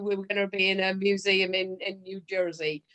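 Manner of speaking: New Jersey said in a quick, lightly put-on American accent; mock American accent. Shown as a demonstration. Host greeting American listeners in a lightly mock American accent. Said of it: "that's my American accent".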